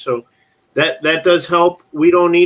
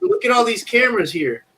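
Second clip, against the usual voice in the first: high mock indignation; 8 semitones higher than usual. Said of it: "He says".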